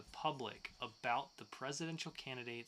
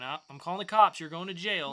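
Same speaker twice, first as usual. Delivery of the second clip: mock outrage; 10 dB louder than usual. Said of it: "me going".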